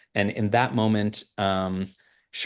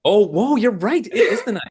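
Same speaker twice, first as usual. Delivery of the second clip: higher, louder laughing realization; real surprise; 12 semitones higher, 7 dB louder than usual. Real, not acted. Guest realizing it's his wife's birthday, laughing in surprise. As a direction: caught off guard, laughing it out.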